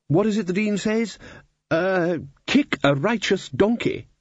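put-on high, puzzled old wizard voice; blustering old wizard. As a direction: bluster like a muddled archmage. Ridcully voice, raised pitch.

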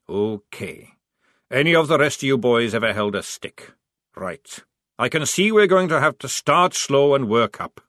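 gruff sergeant. Acted. Sergeant addressing recruits.

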